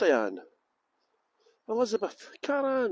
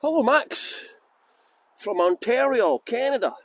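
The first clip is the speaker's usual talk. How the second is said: put-on Australian-accented greeting, half-successful; attempted Australian accent; 3 semitones higher than usual. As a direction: have a go at an Australian hello. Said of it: "why did I say that in an Australian accent".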